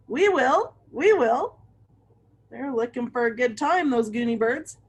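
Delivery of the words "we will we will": excited cheer. A narrator's reading. Birds cheer agreement.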